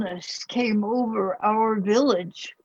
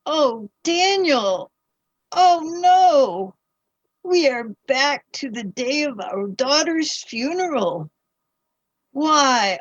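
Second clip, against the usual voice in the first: anguished grief; 3 semitones higher than usual. Acted. Mother relives daughter's funeral.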